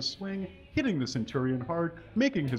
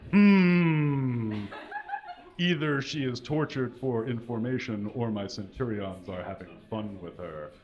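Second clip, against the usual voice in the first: menacing lord; 3 semitones lower than usual. Acted. Ruthless lord muses on torture.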